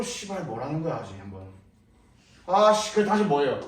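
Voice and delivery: mock a confused student giving up; under-the-breath frustration; frustrated mutter. Shown as a demonstration. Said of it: "내가 극단적 예를 보여줄 거야".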